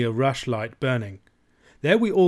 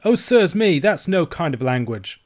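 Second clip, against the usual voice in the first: high, loud dismay easing off; shocked Scots protest, starting high; cried out; 6 semitones higher, 6 dB louder than usual. A narrator's reading. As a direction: protest as the shocked old uncle. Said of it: "cried Ebenezer".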